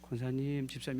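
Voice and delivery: restrained politeness. Acted. Pastor addresses members though fuming inside, restrained and soft. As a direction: hold the frustration in and call politely. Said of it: "우라통이 터져도".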